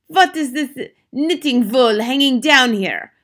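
loud, high, slow demand; imperious villainess; indignant witch. A narrator's reading. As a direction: draw out each word in haughty outrage. Witch demands explanation on balcony.

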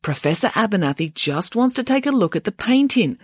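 measured, placating minister; calm. Acted. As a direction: reason evenly with someone unreasonable. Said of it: "said the minister calmly".

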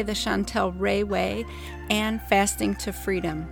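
ordinary talk, nothing marked

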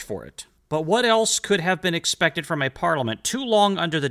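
put-on lifted, formal reading of an old letter. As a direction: read it out like a historical document. Reads Samuel Adams letter aloud.

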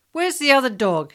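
loud, high demand; near shout. A narrator's reading. Policeman jumps from the car and demands an answer from the boy, nearly shouting. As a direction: bark out the question at the boy. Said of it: "he almost shouted at me".

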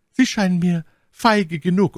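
high, accusing retort; indignant. A narrator's reading. Milady accuses him of cowardice. (empörter Vorwurf, hohe Stimme)

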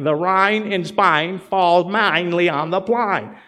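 slow, carefully over-enunciated mock-proper delivery; imitating her practice line. Preacher retelling My Fair Lady, slow mock-careful enunciation. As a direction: lightly act out the girl drilling her vowels. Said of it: "and she's like".

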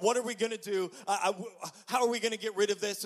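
loud, high, fast panicked question; hammed-up alarm. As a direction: scramble for a plan in a fright. Panicked quote about spider.

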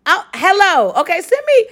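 high, eager call to unseen listeners; a host calling out to listeners in another state, high and eager; excited calling out. Real, not acted. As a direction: shout out to the crowd, pitch way up. Calling out to North Carolina listeners.

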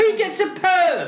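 high, slow disbelieving question; incredulous. Real, not acted. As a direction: ask it in total disbelief.

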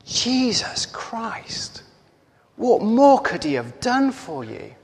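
mother's outrage, acted without shouting; furious retold shout. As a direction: draw out the name slowly, then demand an answer. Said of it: "she shouts at him".

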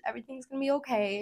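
soft, quick murmured reassurance; comforting nurse. Retold or imitated. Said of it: "she's being so great, so great to me".

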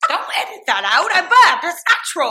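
high, loud, indignant outburst; loud mock protest. Real, not acted. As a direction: protest loudly in a high pitch. Mock protest at editing out burp.

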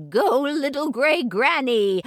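high, slow cheer. Real, not acted. Host after the story, high cheering. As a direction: cheer her on.

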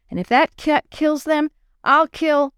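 dad's temper building, cut off; rising anger. Acted. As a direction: climb into a threat.

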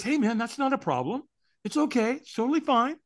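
high, easygoing reassurance; reassuring stranger. Retold or imitated. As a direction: soothe someone in a lifted, light voice. Stranger reassures the refusing speaker.

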